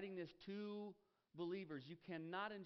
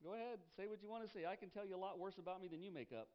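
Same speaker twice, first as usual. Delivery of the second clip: unbothered retort; 3 semitones higher, faster than usual. Retold or imitated. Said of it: "I'm like".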